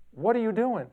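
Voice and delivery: high, loud accusing question as the upset aunt; angry aunt. Retold or imitated. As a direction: demand an answer, alarmed and indignant. Aunt angrily calls about photo.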